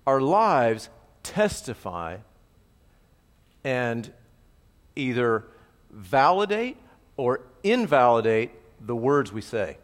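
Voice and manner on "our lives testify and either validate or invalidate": slow emphasis. Shown as a demonstration. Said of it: "Don't miss that".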